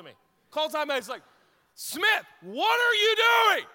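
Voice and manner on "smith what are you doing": very loud, high, slow furious coach shout; coach screaming. Retold or imitated. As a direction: scream at your player during timeout. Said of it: "he's now screaming".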